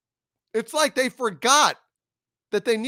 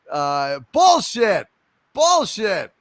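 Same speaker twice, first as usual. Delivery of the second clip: angry shout; 5 dB louder, slower than usual. Real, not acted. Ranting reaction to fans.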